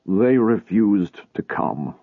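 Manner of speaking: slow, dull and defeated; a mild, flat weariness. Acted. Lot tells his wife his family refused, slow and dull. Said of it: "he said in a dull voice".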